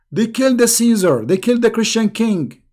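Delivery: forceful emphasis. Real, not acted. Host correcting a viewer about the Tsar, emphatic. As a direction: drive the point home to the viewer.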